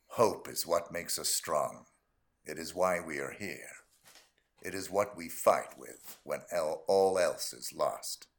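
very low, slow, solemn warrior; deep, weighty heroic monologue; God of War hero. Acted. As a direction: speak gravely from deep down, stretching each phrase. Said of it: "God of War".

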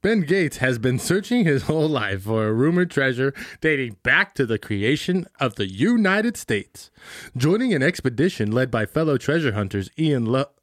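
measured announcer-like read of a film synopsis. Acted. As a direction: read it out like a movie summary.

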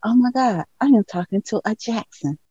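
hushed, awed inner voice; quiet starstruck aside to oneself; thinking to herself. Retold or imitated. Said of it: "I'm thinking to myself".

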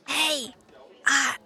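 whispered, tearful apology; a kid whispering sorry, close to tears; timid whisper. Acted. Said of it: "tugs on her clothes and is like".

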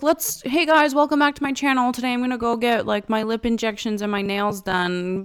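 lightly voiced vlogger welcoming viewers back; mock vlogger greeting. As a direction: open like a bubbly YouTuber. Imitating vlogger channel intro.

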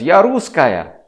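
put-on high, proud child voice; little girl's answer. Little girl tells the questioner, high child voice. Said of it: "And she says".

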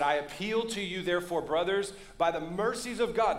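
quoting Paul with an urgent plea; urgent appeal. Retold or imitated. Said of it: "There's an urgency in the Apostle Paul".

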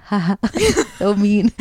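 mischievous little laugh breaking up the words; imitated giggling. Sister alone in the car pranking her family, imitated giggle. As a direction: act out giggling at your own prank. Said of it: "giggling in the car".

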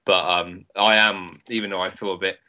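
speaking through painful mouth ulcers; sore mouth. Real, not acted. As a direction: talk carefully around a sore tongue. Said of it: "I'm in agony speaking right now".

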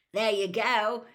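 loud, cheerful call; happy yell. A narrator's reading. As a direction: hand it over gleefully. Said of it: "Ron yelled happily".

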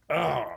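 mock grunt. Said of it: "I heard a grunt".

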